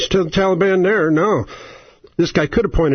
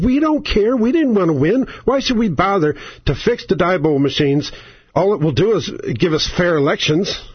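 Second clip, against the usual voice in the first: mock Democrats; 2 semitones higher than usual. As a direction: play them as not caring. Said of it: "The Democrats said".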